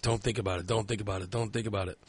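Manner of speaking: low, soft repeated self-coaxing; quietly will yourself to stop thinking; anxious inner voice. Retold or imitated. Man trying to calm himself in bed, hushed insistence. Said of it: "this is all going through my head".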